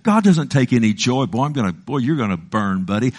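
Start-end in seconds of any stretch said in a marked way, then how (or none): 1.2-3.1 mocking hellfire preacher. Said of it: "That's not God".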